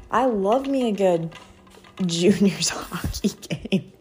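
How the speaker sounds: breathy, giggling sarcastic aside; laughing whisper. Real, not acted.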